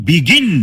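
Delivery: বিগিন with its second syllable গিন punched; stress on last syllable. Shown as a demonstration. Teacher showing last-syllable stress, বিগিন stressed on গিন. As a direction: lean hard on the গিন in বিগিন, rising. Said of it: "জোর আছে".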